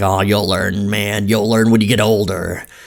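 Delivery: hoarse, gravel-edged, raspy smoker voice. Imitating retail managers brushing off the speaker, in a raspy smoker voice. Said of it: "I don't know why they have a raspy smoker voice".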